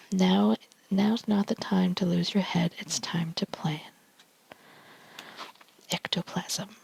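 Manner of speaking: ASMR whisper reading tarot cards; hushed ASMR card reading. Real, not acted.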